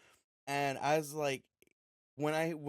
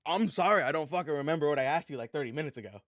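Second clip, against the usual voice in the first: louder, fast fed-up retort; exasperated outburst; 8 dB louder than usual. Retold or imitated. Answering the annoyed opponent mid-game, loud exasperation. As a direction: throw it back at him, fed up.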